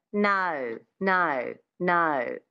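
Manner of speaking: "no" with a little schwa starting the O; Aussie O sound. Shown as a demonstration. Coach showing the key word for the accent, "no" with Aussie O. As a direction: draw out "no" with an Australian twang on the O. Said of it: "Adding that little schwa at the beginning of the O".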